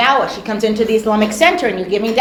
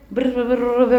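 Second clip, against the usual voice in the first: imitated whispering; 2 semitones lower, 4 dB quieter than usual. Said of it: "whispering in her ear".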